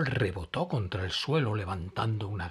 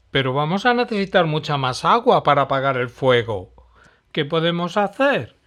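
worried small animal; 4 semitones higher, 10 dB louder than usual. Acted. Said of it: "preguntó Noli".

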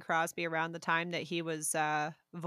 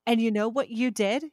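half-serious scolding, punched opening that drops away; indignant accusation; 2 semitones higher, 6 dB louder than usual. Real, not acted. Sister to brother over the Barbie yacht, indignant. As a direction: accuse with playful outrage.

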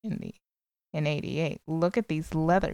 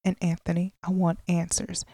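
whiny spoiled brat; 2 semitones lower than usual. Acted. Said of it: "I sound like a spoiled brat".

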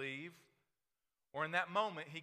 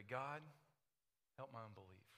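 soft prayer; 2 semitones lower, 8 dB quieter than usual. Acted. Leading a prayer softly.

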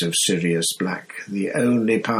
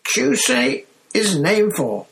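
startled yelp; 12 semitones higher, 3 dB louder than usual. Acted. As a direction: jolt back in fright at the name. Stan still shocked.

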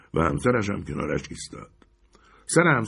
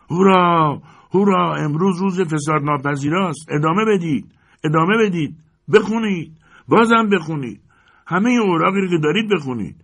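much higher, louder jeering crowd; mocking crowd; 7 semitones higher, 4 dB louder than usual. The hall jeers at the exposed citizens, loud and gleeful. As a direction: cheer in gleeful mockery.

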